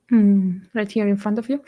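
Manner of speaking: talking with mouth full; words round a bite of food; cheeks stuffed full. Real, not acted. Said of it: "talking with my mouth full".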